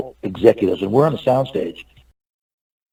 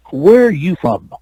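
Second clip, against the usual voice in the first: slow, higher-pitched pointed question; imitated questioning; 5 semitones higher, slower than usual. Star questions the actor about his origins, slow imitated questioning. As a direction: imitate him asking, drawn out. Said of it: "Like that".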